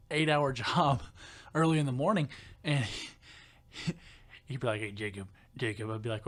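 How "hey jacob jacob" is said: lower, softer imitated country voice; deep country coworker. Imitating the coworker calling Jacob, deep country voice. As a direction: drop low like a country coworker. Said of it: "he had a real deep down low voice".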